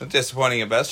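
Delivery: fast ad disclaimer read; prescription commercial voice. Acted. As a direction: rattle it off like a drug ad. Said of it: "prescription commercial voice".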